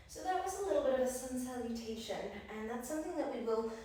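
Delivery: a little winded after the flow; out of breath. Real, not acted. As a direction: talk while catching your breath. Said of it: "It's actually left me a little bit out of breath".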